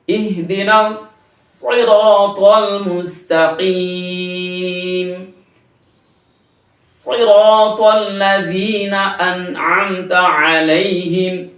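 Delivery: সিরাতাল with a moist-tipped, sweet emphatic s; slow সিরাতাল, s pressed and held a moment; heavy, sweet s in সিরাতাল, slow recitation; sweet heavy sad. Shown as a demonstration. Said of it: "সদের উচ্চারণটা একটু মিষ্টিতে হয়েছে".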